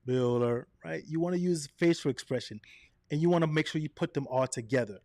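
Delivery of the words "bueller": flat, droning roll call; a lightly voiced monotone teacher; monotone Bueller. Shown as a demonstration. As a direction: drone it like the bored teacher. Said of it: "just talk directly like this".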